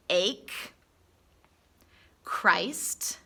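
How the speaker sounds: unvoiced whisper of Christ; whispered word in a list.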